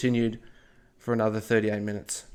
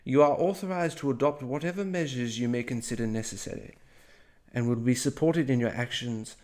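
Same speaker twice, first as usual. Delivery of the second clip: a light British officialese read; reading the telegram in a mild British accent; 4 dB quieter than usual. Retold or imitated. Narrator reads the superiors' telegram in a British accent. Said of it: "Another British accent inbound".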